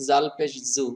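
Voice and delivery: জাল পেশ জু with a plain জ; wrong pronunciation. Shown as a demonstration. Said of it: "বেশি শুদ্ধ হয়নি". (ভুল উচ্চারণে জাল পেশ জু)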